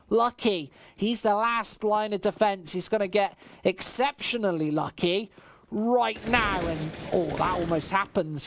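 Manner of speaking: esports caster calling the action; live play-by-play. Acted. Caster calling the round for stream chat, live play-by-play. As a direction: keep the round flowing, rising with the fights.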